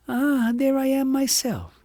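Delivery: high and slow, pleased discovery; delighted recognition. Acted. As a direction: find yourself in the picture. Agnes spots herself.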